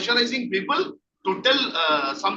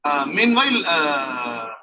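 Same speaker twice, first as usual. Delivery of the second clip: reassuring role-play; 5 semitones lower than usual. Shown as a demonstration. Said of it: "So like this".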